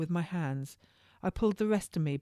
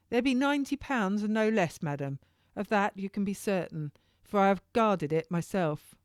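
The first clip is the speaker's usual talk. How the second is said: lightly voiced jailer, a bit higher; a hint of the turnkey giving instructions; turnkey's voice; 4 semitones higher than usual. Turnkey leaving Missus Cellier at the gate, lightly voiced.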